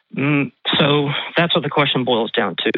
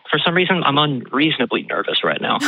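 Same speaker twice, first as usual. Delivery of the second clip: out of breath. Real, not acted. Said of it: "I sound like I'm out of breath".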